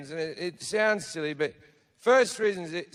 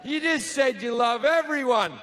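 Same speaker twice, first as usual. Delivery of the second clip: pleading guests; 5 semitones higher than usual. Acted. Guests trying to calm God.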